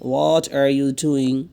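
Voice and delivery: What are you doing? spelled out word by word, very slow; slow it right down for learners to copy; slow teacher's repeat; very slow drill. Shown as a demonstration. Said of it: "What are you doing? (first take)".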